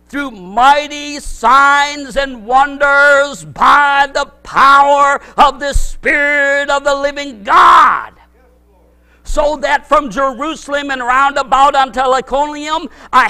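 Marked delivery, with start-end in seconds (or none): 0.1-8.1 slow, loud, ringing proclamation; preacher declaiming scripture with force; proclaimed scripture. Real, not acted. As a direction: boom the verse out to the congregation.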